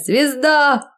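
high joyful shout. A narrator's reading. Eva feeling like a goddess, joyful high shout. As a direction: cry out like a star. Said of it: "хочется кричать".

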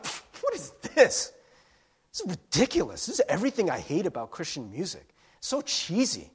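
scoffing half-laugh, mocking the cheesy lyric; laughing in disbelief. Songwriter scoffing at his own cheesy line, half-laughing. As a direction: laugh it off as ridiculous. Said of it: "he just started laughing".

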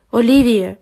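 a firm, stern call of her name; stern interruption. Acted. Advisor sternly cutting off panicking student, firm call. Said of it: "суворо перебила її".

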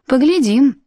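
skeptical, drawn out with a rise; doubtful. Acted. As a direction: say it like you don't believe her. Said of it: "недоверчиво сказала Нэнси".

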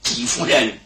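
a mild mock call across the camp. Someone in the camp gate calls to the lady, mild mock shout. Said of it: "有人大喊".

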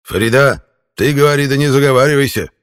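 put-on a furious old man snapping back; enraged old man. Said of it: "тут же разъярился старик".

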